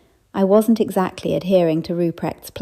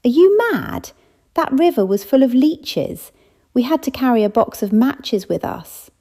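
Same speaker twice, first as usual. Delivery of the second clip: put-on much higher, louder outraged old lady; indignant scolding; 6 semitones higher, 3 dB louder than usual. Old Edith scolding the narrator for a naive remark, indignant. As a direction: scoff at such a foolish idea.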